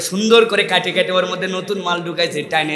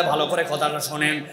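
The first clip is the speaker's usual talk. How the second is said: softer, inviting call to listen; quiet plea; 3 semitones lower, 6 dB quieter than usual. Shown as a demonstration. Preacher softly asks the crowd to listen. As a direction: draw them in softly. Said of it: "ভালো করে শোনেন".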